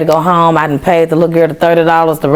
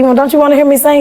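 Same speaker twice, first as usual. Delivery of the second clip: puzzled question; 9 semitones higher, faster than usual. Retold or imitated. Calling the scholarship man back, puzzled. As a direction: ask it like you can't believe he skipped it.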